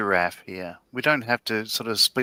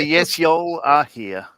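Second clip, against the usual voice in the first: slow, louder, half-hearted impersonation; attempted Tiff voice; 4 semitones higher, 5 dB louder, much slower than usual. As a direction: have an unsure go at someone else's accent, drawn out. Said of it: "I don't know how to do a Tiff voice".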